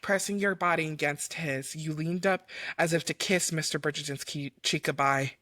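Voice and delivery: measured romance audiobook reading; composed storyteller voice; story narration. A narrator's reading. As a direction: read the love scene aloud, evenly and deliberately. Reads fan fiction aloud.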